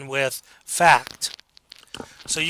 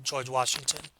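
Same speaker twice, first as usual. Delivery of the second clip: confident, flat out; 3 semitones lower, 9 dB quieter than usual. Shown as a demonstration. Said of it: "should answer that just flat out".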